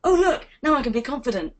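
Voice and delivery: high bright ding, then mock delight; mock magic transformation. Mocking a magic-wand fix, light and bright. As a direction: play the instant-confidence fantasy. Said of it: "wave a magic wand and go".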